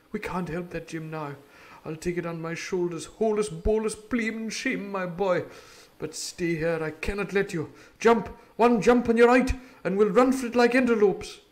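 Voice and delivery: rising to a loud urgent call; doctor urging. Acted. Doctor urges Jim to jump and flee, loud. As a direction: push him to jump and run.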